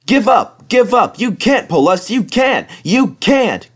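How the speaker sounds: high, loud jeering calls; taunting trucks. Acted. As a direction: taunt him over and over. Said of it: "called the trucks".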